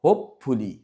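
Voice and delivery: first syllable হোপ of হোপফুলি stressed; stress on HOPE. Shown as a demonstration. Teacher shows pupils হোপফুলি with stress on হোপ. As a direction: hit হোপ in হোপফুলি, drop the rest. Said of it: "হোপ জোর দিয়ে পড়তে হবে".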